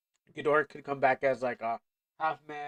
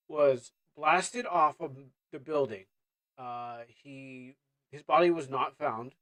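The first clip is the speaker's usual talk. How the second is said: trying to be serious. Pretend. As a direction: break grave news, holding back laughter. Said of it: "I'm trying to be serious".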